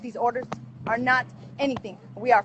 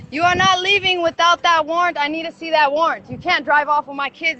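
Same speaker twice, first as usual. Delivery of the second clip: firm, raised-voice demand; forceful protest; 3 semitones higher, 4 dB louder than usual. Real, not acted. Mother blocking officials from driving off with her kids, forceful protest. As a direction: insist urgently, refusing to back down. Confronting people taking her children, no warrant.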